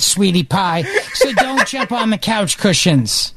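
mock motherly warning that runs on and on; hint of a worried mom, laughter creeping in; imitated fretting mother. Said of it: "you should hear my mother being like".

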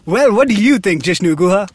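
booming mock announcer question. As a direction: call out his name like a ring announcer. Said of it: "I'm doing this announcer voice".

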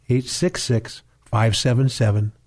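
slow, deliberate number read; slowly. Shown as a demonstration. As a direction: give each digit room, slowly.

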